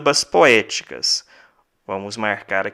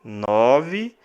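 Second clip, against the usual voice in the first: counting syllables; 3 dB quieter, much slower than usual. Shown as a demonstration. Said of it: "Dez sílabas poéticas".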